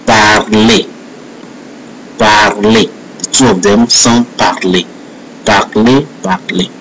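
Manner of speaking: "parler" said as "par-lay"; French "parler", final R dropped. Shown as a demonstration. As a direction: end "parler" like "may", the R silent. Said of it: "the same E can sound like, uh, may".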